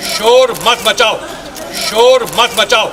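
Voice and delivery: loud scolding. Real, not acted. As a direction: call out firmly over the noise. Repeated scolding of crowd.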